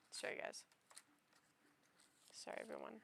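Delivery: whispering. Real, not acted. Apologizing after shouting.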